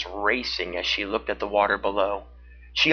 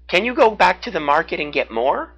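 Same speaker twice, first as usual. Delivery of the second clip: beaver voice; 7 semitones higher, 5 dB louder than usual. A narrator's reading. Beaver asks, higher voice.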